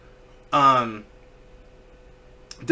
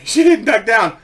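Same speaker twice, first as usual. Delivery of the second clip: plain reading voice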